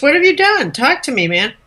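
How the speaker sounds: high-pitched urgent question, easing down; a touch of exasperated appeal; lightly voiced pleading. Pilate urging silent Jesus to talk, lightly acted pleading.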